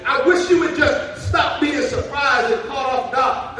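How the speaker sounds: loud, rising shout over the music; shouting preacher. Acted. God pleads with his people, voiced as a loud preacher's shout. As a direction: shout it to the back pews.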